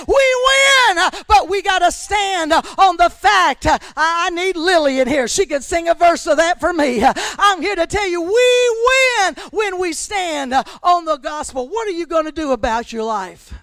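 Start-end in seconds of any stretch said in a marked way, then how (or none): 0.1-11.7 loud, driving sermon voice; shouting preacher in full flow; full-force preaching. Acted. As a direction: preach it hard to the congregation.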